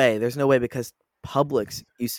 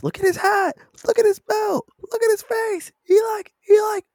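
very high mock yelling, building louder; TikTok meme imitation; 5 dB louder, slower than usual. Friend acts out a favorite TikTok, shrieky imitation. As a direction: squeal the meme lines, getting louder. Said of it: "I love that TikTok so much".

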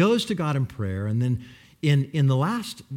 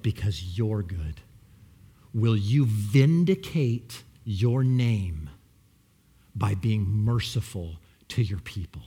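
whispered, breathless plea; hushed prayer; 8 semitones lower, slower than usual. Acted. Preacher whispers his prayer to God, hushed.

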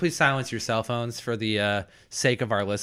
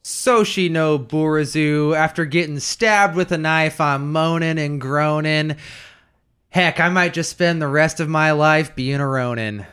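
verse recital; 3 semitones higher than usual. Acted. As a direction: recite a little homemade blues verse. Recites a prepared verse introduction.

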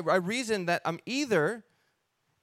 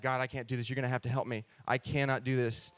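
softer pleading prayer; 4 semitones lower than usual. Retold or imitated. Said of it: "And I started praying".

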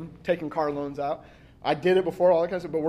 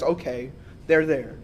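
mock soothing; 4 semitones lower, slower than usual. Imagined God soothing the angry speaker.

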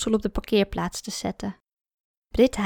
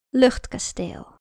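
title announcement; slower than usual. Shown as a demonstration. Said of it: "met het verhaal".

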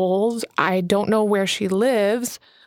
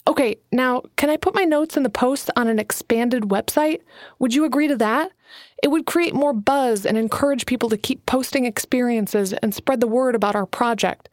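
put-on lightly raised young woman's voice, earnest; a hint of a nervous young writer pitching her idea; young Alana, eager; 3 semitones higher than usual. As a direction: lift the voice a little for eager Alana. Alana's dialogue voiced by narrator.

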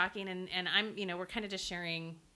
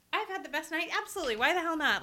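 excited; 6 semitones higher, faster than usual. Retold or imitated. Enthusiastic inner quote accepting wine.

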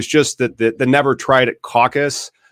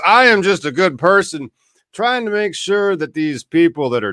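a hammed-up holier-than-thou voice; mocking pious defender; 4 semitones higher than usual. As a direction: whine it out like a smug goody-goody. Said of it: "They're defending".

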